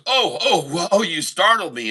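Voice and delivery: playful startled yelp easing into words. Acted. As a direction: act mildly spooked, stumbling over the ohs. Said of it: "scares the crap out of Patty".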